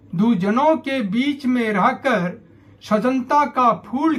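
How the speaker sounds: measured verse with pauses between lines; each line lifted, then let fall; poem recitation. Acted. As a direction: recite it as gentle counsel in verse.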